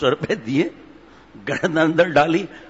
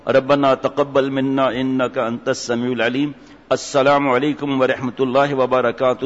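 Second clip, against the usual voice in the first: slow, measured Arabic prayer; unhurried formal prayer and salaam; closing prayer recitation; slower than usual. Real, not acted. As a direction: recite it slowly and evenly to close.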